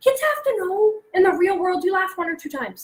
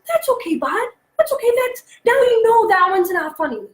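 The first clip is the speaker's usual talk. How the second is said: reassuring mother; 6 semitones higher, 4 dB louder than usual. Retold or imitated. Mother reassures her son.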